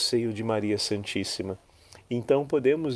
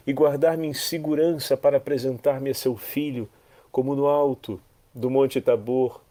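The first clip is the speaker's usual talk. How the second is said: fervent prayer. Acted. Preacher praying aloud to Mary, fervent. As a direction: pray it to the Mother, rising and falling.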